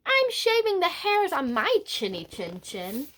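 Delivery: mock yell. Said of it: "He yelled back".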